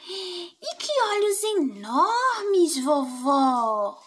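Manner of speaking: put-on slow, wondering child's voice; amazed little girl. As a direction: marvel slowly at the big ears. Girl marvels again.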